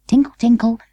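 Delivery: high, light tinkling chime; music box chime. Acted. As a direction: ring it out like a little music box. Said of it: "played the music box".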